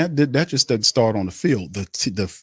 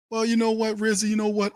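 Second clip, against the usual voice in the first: mock high voice; 11 semitones higher, faster than usual. Answering in mock voice.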